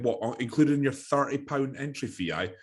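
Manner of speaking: mock his naivety sarcastically; mock sarcastic tanner.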